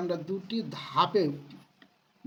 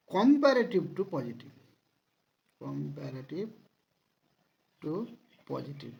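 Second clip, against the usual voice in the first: slow dictation; much slower than usual. Shown as a demonstration. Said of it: "slow dictation".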